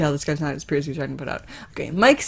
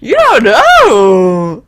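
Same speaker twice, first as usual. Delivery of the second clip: louder, very slow growl; high growling voice; 4 semitones higher, 10 dB louder, much slower than usual. Acted. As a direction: drag the growl out slowly. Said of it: "High growling".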